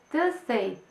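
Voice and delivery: put-on "Tuesday" as the children say it for "Thursday", th lost; kids' mistake. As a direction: imitate the kids saying "Tuesday". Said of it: "van a decir". (los niños dicen "Tuesday" en vez de "Thursday")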